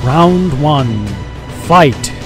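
booming fight announcer; announcer call. Acted. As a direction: call the round like an arena announcer.

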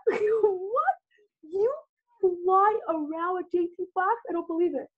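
high, slow, amazed gasping question; mock disbelief. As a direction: act stunned and thrilled. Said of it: "I'm like".

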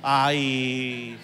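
slow, low dreamy sighs dissolving into a laugh; mock shopping bliss; giddy shopper sighs. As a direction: swoon over shop windows. Mimics shopper's emotional buying.

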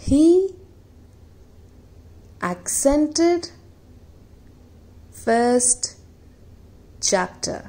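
example sentence read word by word; slow example reading. Shown as a demonstration. Teacher reading an example of accented, slow and spaced. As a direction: dictate it with long pauses between words. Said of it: "इसका usage आप देख लेंगे".

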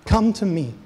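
impassioned call. Acted. Jesus calling his bride back, an impassioned call. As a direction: cry it out to them. Repeated louder invitation.

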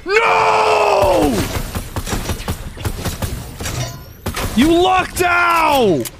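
shouted frustration; frustrated shouting. Real, not acted. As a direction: yell at the screen, slowly on the last. Losing a fight in game.

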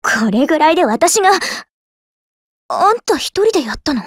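usual speaking voice

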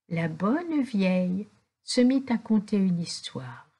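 ordinary delivery

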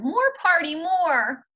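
put-on high, loud demanding little boy; high loud plea of a small boy; toddler crying out. A narrator's reading. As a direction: wail it high like a child refusing to leave. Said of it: "He cried".

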